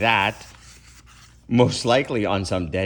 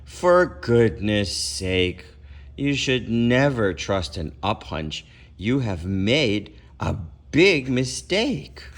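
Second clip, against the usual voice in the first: sighed; slower than usual. Acted. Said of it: "and he sighed".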